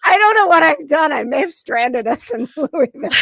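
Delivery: laughing mock despair; half-laughing fake panic. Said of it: "I was like".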